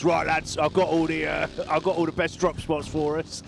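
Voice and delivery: Barney's put-on accent. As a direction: mimic Barney switching into his accent. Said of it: "Good, changes his accent".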